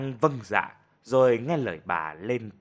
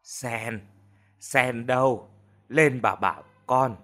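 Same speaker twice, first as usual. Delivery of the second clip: louder call from the sickbed, slow at the end; 3 dB louder, slower than usual. Acted. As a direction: call the maid up from downstairs. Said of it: "bà gọi". (bà gọi to người ở từ trên giường)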